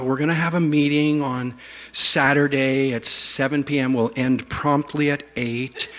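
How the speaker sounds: exaggerated hesitant, apologetic announcement. Pastor announcing a prayer meeting, exaggeratedly apologetic. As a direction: tiptoe through it, softly apologizing. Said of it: "the pastor's essentially apologizing".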